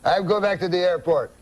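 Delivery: put-on comic Frenchman uncle accent; French-Canadian accent. Uncle tells cab driver he loves riddles, French-Canadian accent. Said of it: "That's how he talks".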